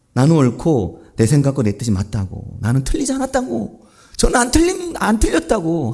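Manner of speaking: stubborn, rising denial; insistent protest. Acted. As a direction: climb in pitch as you insist. Acting out Jonah's stubborn protest.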